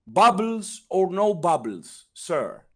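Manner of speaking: mock formal server offering sparkling water; hammed-up polite waiter asking a question; posh waiter. Waiter voiced in retold story.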